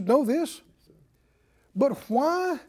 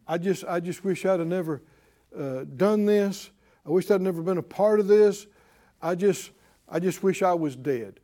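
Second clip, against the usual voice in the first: pitched-down, halting voice of regret; mock complaint; 3 semitones lower than usual. Preacher acting out people who wish they were dead, low mock complaint. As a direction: imitate someone sorry they ever took part. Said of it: "Have you ever heard this kind of talk".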